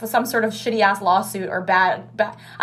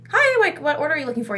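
high customer-service voice; 5 semitones higher than usual. Retold or imitated. Fake-cheerful greeting to customer.

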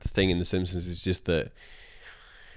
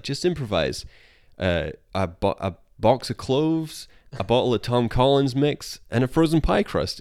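Homer voice; 4 semitones higher than usual. Retold or imitated. Homer voiced listing food.

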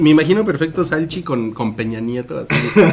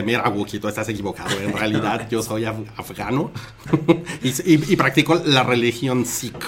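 quieter, low, a hint of a foreign man; lightly voiced stranger; 3 semitones lower, 5 dB quieter than usual. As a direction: speak as a calm stranger correcting. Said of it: "ahorita entra y te dice".

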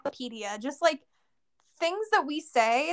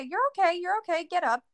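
higher, brisk brush-off; brisk reassurance; 5 semitones higher than usual. Retold or imitated. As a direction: wave the kid up, no fuss. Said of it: "and you say".

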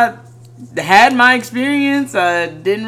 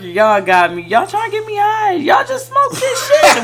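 retold outburst; 4 semitones higher than usual.

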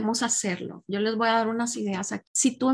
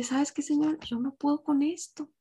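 humble prayer; 3 semitones higher than usual. Acted. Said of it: "ir a los pies de Cristo y decirle".

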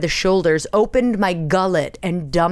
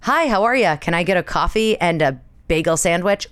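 friendly pleasantries. Shown as a demonstration. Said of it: "greet them with anything other than".

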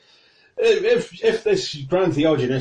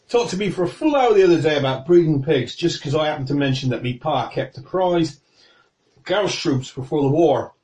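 put-on toothy old guy; 4 semitones higher than usual. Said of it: "says some toothy old guy".

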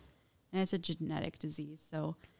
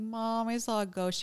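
a hint of a child calling for mom, higher pitch; lightly acted kid reporting to a parent; lightly voiced child; 5 semitones higher than usual. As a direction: raise the voice slightly like a little kid telling mom. Acting child waking mom at night.

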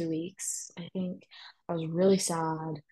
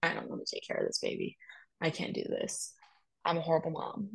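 retold crying words; 5 dB quieter, faster than usual. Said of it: "I was crying every second saying".

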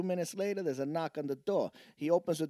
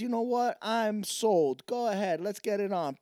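higher and a bit louder, sold; hammed-up keen customer; eager guy; 6 semitones higher, 4 dB louder than usual. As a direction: jump at the offer. Joke, guy eagerly agreeing.

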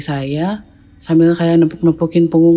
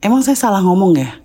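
confused disbelief; 5 semitones higher, faster than usual. Retold or imitated. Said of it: "Itu saya benar-benar bingung".

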